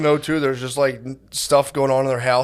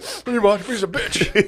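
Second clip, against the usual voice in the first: mock tough guy; 8 semitones higher than usual. Imitating friend's voice.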